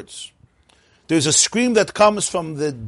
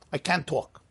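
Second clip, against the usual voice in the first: put-on child can't speak; 9 dB quieter than usual. Acted child answering the adult.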